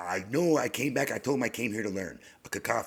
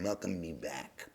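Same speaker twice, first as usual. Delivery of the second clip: whispered voices; 3 semitones lower, 7 dB quieter, slower than usual. Retold or imitated. Voices in his mind welcoming.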